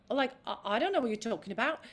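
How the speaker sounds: quick, unbothered protest; open Eliza protest. Shown as a demonstration. Actress demoing Eliza's open, unstressed protest, quick. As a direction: brush it off, eyes wide. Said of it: "open your eyes and go".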